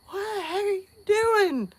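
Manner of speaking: high, mock-outraged dad; a hammed-up rudely woken dad; grumpy dad. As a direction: play the startled father catching the kid. Dad wakes up annoyed.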